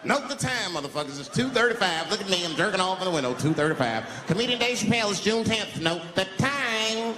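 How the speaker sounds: high, loud announcing to the street; calling out for witnesses. Pretend. Comic calling to neighbours to note the time, loud. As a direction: bellow it like an alibi announcement.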